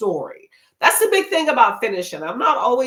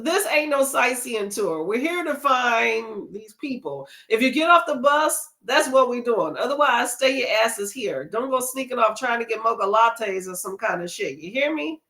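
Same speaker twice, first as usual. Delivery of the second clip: reading gruff chaperone; 3 semitones higher than usual. Retold or imitated. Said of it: "And he goes".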